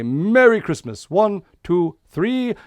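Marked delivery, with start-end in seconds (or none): 1.1-2.5 put-on kids party magician. Santa performs a magic pan trick.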